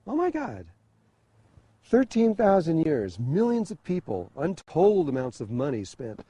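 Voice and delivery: sitting alone in the hotel, aghast at the failed ceremony; disbelief. Retold or imitated. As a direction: voice his despair at losing it all. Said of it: "I sat in there going".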